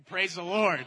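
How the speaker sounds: laughs out a loud praise; loud happy laugh into praise; joyful laughing praise. Real, not acted.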